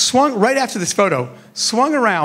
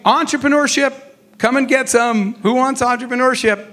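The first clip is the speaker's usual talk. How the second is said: lightly voiced street vendor calling out his wares; a hint of a market hawker crying his goods; street peddler hawking; 3 semitones higher than usual. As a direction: hawk it like a peddler in the street, only half-playing it. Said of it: "I felt like a peddler".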